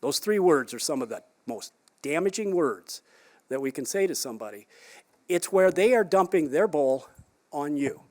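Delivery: usual speaking voice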